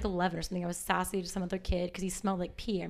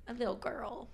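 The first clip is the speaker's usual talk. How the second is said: whispered, unvoiced aside; 6 dB quieter than usual. Real, not acted. Woman whispering that she feels like a little girl. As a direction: breathe it out as a small whisper.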